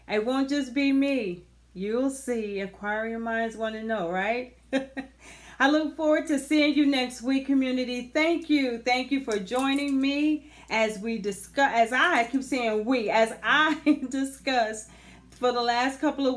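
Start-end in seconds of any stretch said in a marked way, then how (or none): 5.6-16.4 laughing. Real, not acted. Laughs at own slip.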